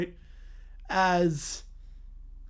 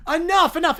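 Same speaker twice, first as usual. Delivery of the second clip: stern judge; 6 semitones higher, 6 dB louder than usual. Acted. Judge silences the courtroom.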